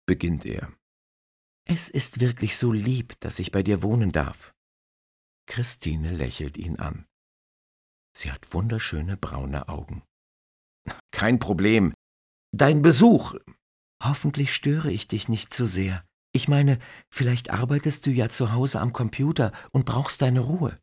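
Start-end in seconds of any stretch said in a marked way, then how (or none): 1.7-4.5 put-on young woman voice. Christine voiced higher. 11.1-20.8 put-on young woman voice. Christine voiced higher.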